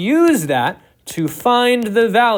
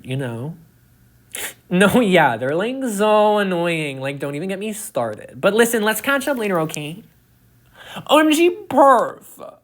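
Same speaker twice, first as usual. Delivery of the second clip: giggly late night call. Acted. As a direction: gush and giggle like a gossipy teen. Teen gossip phone call skit.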